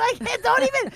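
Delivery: high, helpless giggle voice; laughing. Retold or imitated. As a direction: squeak it out through laughter. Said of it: "I go".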